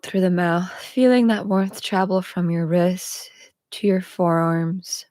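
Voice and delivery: guided meditation. Real, not acted. Host guiding listeners through a cacao ceremony, guided meditation. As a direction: lead them unhurriedly through the body, lingering on phrase ends.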